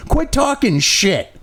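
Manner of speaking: slow, shouted command; shouted scold. Real, not acted. Telling Biden off with a slow shout. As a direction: bark it at him slowly.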